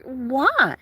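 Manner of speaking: high, puzzled little kitten voice; confused kitten voice. Retold or imitated. Confused kittens asking why she left, high puzzled voice. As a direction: ask it like a bewildered kitten.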